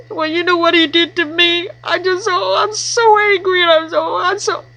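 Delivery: wife griping to her best friend, mock furious venting; mock angry rant. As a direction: act out a wife boiling over to her girlfriend. Wife venting to girlfriend about husband.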